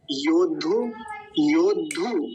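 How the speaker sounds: "योद्धु" as yod-dhu, held on the d; half d doubled. Shown as a demonstration. Teacher models the word separately, firm doubled d. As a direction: stop on the d in "योद्धु" before dhu. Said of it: "योद्धु नहीं बोलेंगे".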